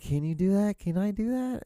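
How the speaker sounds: high-pitched anxious self-questioning; doubtful self-talk. Retold or imitated. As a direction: squeak out your own doubts. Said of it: "I'm like".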